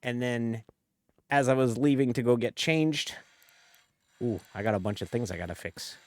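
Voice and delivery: put-on Jersey-Aussie-Southern mash-up accent; hammed-up Jersey-meets-Southern colonel accent; mixed-accent bit. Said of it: "I'm gonna actually talk normal now".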